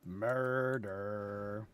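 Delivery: drawn-out theatrical threat, slowing at the end; acted retort. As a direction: play up a mock-villain reply. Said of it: "And I'm like".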